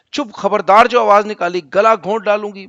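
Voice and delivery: loud mock threat to the child; hammed-up furious mother; angry threat. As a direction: shout the child down, half acted.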